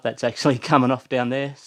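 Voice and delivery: panting between words; breathless after the climb; out of breath. Real, not acted. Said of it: "oh, sorry, I'm out of breath".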